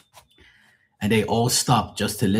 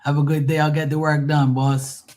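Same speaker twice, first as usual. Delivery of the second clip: higher-pitched joking English imitation; mock English accent; 6 semitones higher than usual. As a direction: answer the boss in fake English. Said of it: "I can do voices and imitations".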